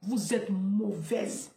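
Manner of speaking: ordinary talk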